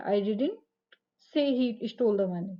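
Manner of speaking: didn't set off with a rise and a pause; stress on DIDN'T. Shown as a demonstration. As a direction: lean on didn't, pause, then slowly finish. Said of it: "didn't पर जोर दिया गया है".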